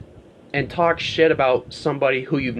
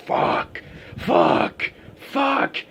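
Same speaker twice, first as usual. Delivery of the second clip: high, hissed mock muttering of fuck; a mocking, whiny impression of a tantrum; imitating Lars; 12 semitones higher, much slower than usual. Lars going off about James in therapy, mock whine. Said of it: "going off saying".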